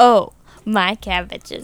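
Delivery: mock sultry, sexual-sounding delivery. Imitating another speaker's line: imitating a sexual-sounding delivery. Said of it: "a sexual way for you to say that".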